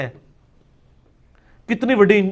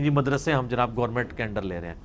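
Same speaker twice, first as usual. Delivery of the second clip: mocking quote; 9 semitones lower, 9 dB quieter than usual. Mocking the government's announcement.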